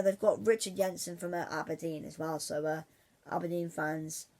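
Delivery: normal talking voice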